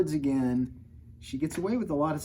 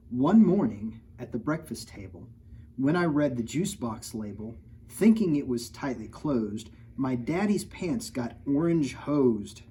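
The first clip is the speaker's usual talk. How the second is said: slow, lilting read-aloud verse; reading to children; 4 dB louder than usual. A narrator's reading. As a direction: read the rhyme to the kids. Story narration.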